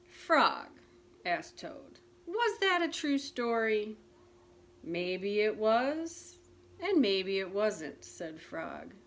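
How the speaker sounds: put-on gentle storybook narration for children; reading a picture book aloud to listeners; story reading. A narrator's reading. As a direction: read it like a bedtime story. Reads Frog and Toad story aloud.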